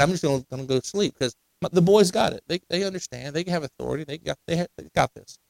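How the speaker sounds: tossing it off like he's settling in for a nap; laid-back Jesus. Retold or imitated. Preacher voices Jesus going to sleep.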